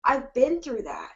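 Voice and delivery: real emotional catch, slowed and teary; holding back tears. Real, not acted. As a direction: fight the tears while speaking. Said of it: "I'm trying so hard not to cry".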